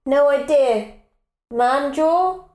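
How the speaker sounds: calling back through the loo door. Real, not acted. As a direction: answer loud enough to carry.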